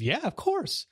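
mock the son's eager yes; son answering. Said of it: "He said".

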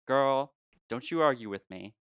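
lightly put-on sassy comeback; sassy mock scolding. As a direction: tell them off like a teasing diva. Voicing friend's mock scolding.

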